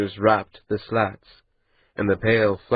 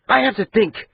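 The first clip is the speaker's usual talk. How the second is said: agitated; 11 semitones higher than usual. Acted. Maati snapping, agitated.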